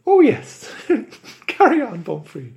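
high, loud, fast pleading stage Irish; leprechaun Irish accent. Acted. Leprechaun begs Bumfrey for release in Irish accent. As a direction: beg in a squeaky Irish leprechaun voice. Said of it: "lay on the accent so thick".

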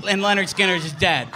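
berserk rage. Retold or imitated. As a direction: yell that they lost. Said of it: "finally I just snap".

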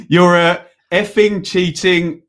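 drawn out, leaving gaps for the bleep; slow and deliberate with spaces for the beeps; slow pause for bleep. Pretend. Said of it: "a bit slow on the uptake".

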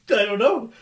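giggling through the words; laughing. Real, not acted. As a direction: crack up while answering. Guest cracking up on air.

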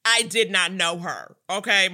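a light nod to a singer's I-don't-know-her snub; mock diva dismissal, barely voiced; a singer's style. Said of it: "a singer's style".

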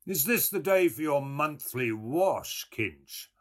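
high, lilting bland question. A narrator's reading. Man teases his friend about washing, blandly. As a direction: ask it with innocent blandness, dropping on the name. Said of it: "He turned to Stephen and asked blandly".

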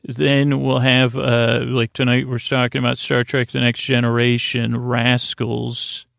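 drowsy late-night host easing into the episode; lulling sleep podcast voice. Acted. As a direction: lull the listener gently toward sleep. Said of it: "I use lulling, soothing, creaky, dulcet tones".

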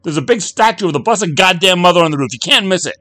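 very high, loud sarcastic tirade; a wife in labour berating her husband; exasperated yelling. Acted.

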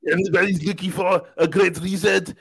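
put-on Arnold accent. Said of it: "and now I sound like Arnold".

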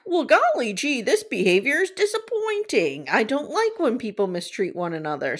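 earnest aw-shucks scolding; wholesome 1950s kid. Retold or imitated. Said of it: "So Gary's like".

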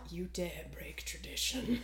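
hushed, teasing mock outrage; mock whisper. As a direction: whisper it like a dire warning. Mock outrage about the game.

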